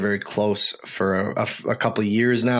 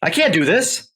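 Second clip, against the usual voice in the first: overwhelmed, can't believe the ask; stunned disbelief; 4 semitones higher than usual. Retold or imitated. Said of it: "And I'm going".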